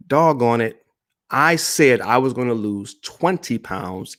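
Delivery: exasperated self-talk, giving up; frustrated outburst fading into resignation; mock frustration. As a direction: act out a fed-up quitter, punchy then dropping off. Acted frustrated quitter's self-talk.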